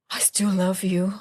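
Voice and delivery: hushed, strained reassurance; whispered reassurance. Retold or imitated. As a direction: whisper it while holding anger in. Mother retells answering her son.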